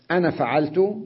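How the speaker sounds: "أنا" with its a clipped short; short ana in linking. Shown as a demonstration. Teacher showing students the alif dropped in linked speech. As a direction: say "أنا" short, flowing into the next word. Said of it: "فيلفظ".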